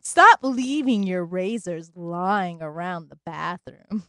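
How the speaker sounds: seductive voice. Acted. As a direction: drag it out, half laughing, slow. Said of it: "It sounded like I was gonna kill somebody".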